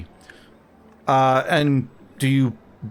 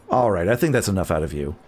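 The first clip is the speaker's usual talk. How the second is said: stern guard; 6 semitones lower, faster than usual. Acted. Guard cuts off the woman.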